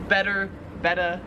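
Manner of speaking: "better" with an R, then "betta" ending in uh; R kept, then dropped. Shown as a demonstration. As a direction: go from American "better" to Australian "betta". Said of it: "The R is not really pronounced".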